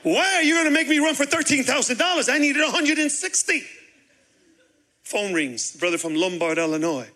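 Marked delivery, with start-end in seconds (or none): 0.0-3.7 higher, mock-desperate plea to God; hammed-up complaint to the Father; exasperated prayer. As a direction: pastor complaining to God about the money. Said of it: "I said".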